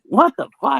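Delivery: high, mock-baffled exclamation; bewildered self-quote. Recalling dog that just took a piss, high bewilderment.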